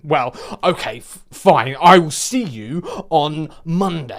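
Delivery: slow, halting mock huff; grudging acceptance. Customer giving in until Monday, slow grudging huff. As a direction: give in grudgingly, spacing out the words.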